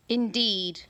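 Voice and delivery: loud, certain reply; emphatic monster. A narrator's reading. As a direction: say it like a verdict. Monster voice held.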